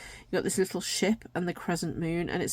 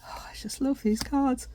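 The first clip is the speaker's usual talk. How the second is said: speaking through a yawn; words pulled long by a yawn; 7 semitones higher than usual. Real, not acted. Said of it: "Excuse me for yawning".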